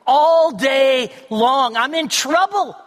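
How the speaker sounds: desperate man crying out for help; earnest cry. Retold or imitated. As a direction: call out to God in real distress. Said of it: "this sense of earnestness".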